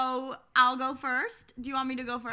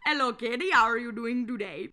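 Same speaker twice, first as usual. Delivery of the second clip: lightly done Indian accent. Shown as a demonstration. Showing cohost an accent, Indian accent. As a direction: attempt a friendly greeting in an Indian accent. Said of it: "really good Indian accent".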